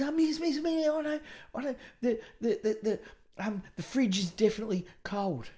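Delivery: put-on high, breathless kid voice bursting to answer; eager schoolgirl. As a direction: squeal for the teacher's attention. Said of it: "She goes".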